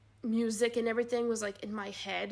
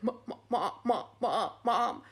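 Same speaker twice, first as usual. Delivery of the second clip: barely able to talk; 4 dB louder than usual. Retold or imitated. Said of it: "I couldn't even talk".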